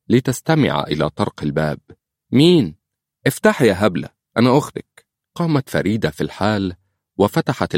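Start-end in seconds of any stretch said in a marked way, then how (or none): 2.3-5.1 higher, louder call through a closed door. A narrator's reading. Older sister calling to her sister through the door, loud and playful. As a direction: shout teasingly to your sister outside the door.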